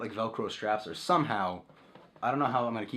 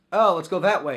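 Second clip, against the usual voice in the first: mock anime girl; 8 semitones higher, 10 dB louder than usual. Mocking an anime girl character.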